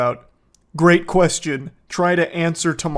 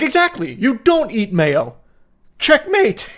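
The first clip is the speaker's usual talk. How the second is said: higher, louder mock triumph; sarcastic mockery; 6 semitones higher, 4 dB louder than usual. Real, not acted. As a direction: sneer out checkmate. Sarcastic mock of his logic.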